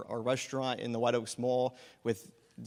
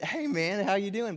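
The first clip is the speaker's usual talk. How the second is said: higher-pitched mock server greeting; customer greeting; 6 semitones higher than usual. Restaurant worker turning round to a returning customer, customer greeting. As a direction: lightly put on a customer hello.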